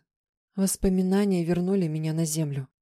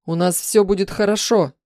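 happy; 2 semitones higher, 6 dB louder than usual. Acted. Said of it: "счастливо выдохнул муж".

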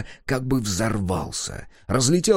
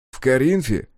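teasing jab; 3 semitones higher than usual. Acted. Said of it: "не преминул поддеть Егор".

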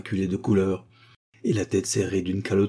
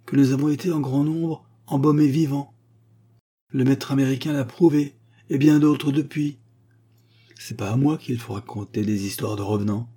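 lightly higher, louder lecturing mummy; condescending mummy; 5 semitones higher, 4 dB louder than usual. Acted. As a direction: set the fool straight.

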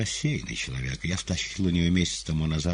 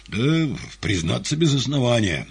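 sheepish, higher confession; embarrassed admission; 8 semitones higher, 7 dB louder than usual. A narrator's reading. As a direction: admit it with embarrassment. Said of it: "сконфузившись".

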